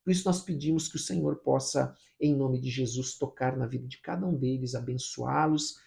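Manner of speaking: insistent prayer, building in force; fervent prayer. Real, not acted. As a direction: plead with God in rolling, emphatic phrases. Prayer grows more fervent. (oração fervorosa e insistente)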